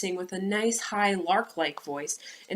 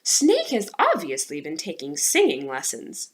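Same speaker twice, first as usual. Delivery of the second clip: peevish; 2 semitones lower, 5 dB louder than usual. Acted. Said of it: "somewhat peevishly".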